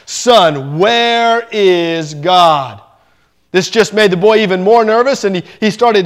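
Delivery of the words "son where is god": very slow, drawn-out booming question; lightly voiced pastor, stretching every word; a hint of a heavy preacher's boom. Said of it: "in his booming voice".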